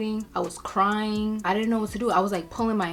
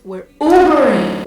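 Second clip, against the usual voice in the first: suddenly very loud, higher-pitched; loud exasperated punchline; exasperated outburst; 5 semitones higher, 15 dB louder than usual. Real, not acted. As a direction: blurt it out loudly in exasperation. Exasperated punchline of rental ordeal.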